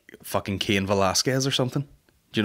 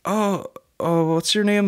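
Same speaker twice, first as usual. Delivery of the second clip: nosy woman; 10 semitones higher, slower than usual. Retold or imitated. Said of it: "And she goes".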